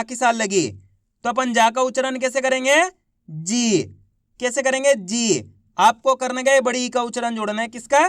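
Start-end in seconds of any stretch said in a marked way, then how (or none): 3.3-3.8 जी with a long, held ī, falling; drawn-out long ī. Shown as a demonstration. Teacher showing how जा becomes जी, drawn out. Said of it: "खींच खींच के इसका उच्चारण करना है". 5.0-5.5 जी held long, sliding down in pitch; drawn-out long ī. Shown as a demonstration. Teacher answering own question to class, drawn out. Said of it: "खींच खींच के इसका उच्चारण करना है".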